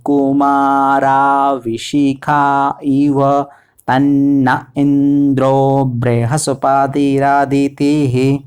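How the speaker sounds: slow, syllable-by-syllable Sanskrit chant on a level pitch; mantra recitation. Shown as a demonstration. Teacher reciting the whole mantra for learners, measured chant. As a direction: stretch each long vowel evenly. अब पूरा मंत्र बोलूँगा मैं.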